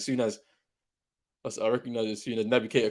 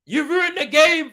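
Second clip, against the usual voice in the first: high, loud, slow accusation; furious drawn-out complaint; angry shout; 7 dB louder, slower than usual. Real, not acted. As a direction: hurl it at the ref. Yelling at the referee.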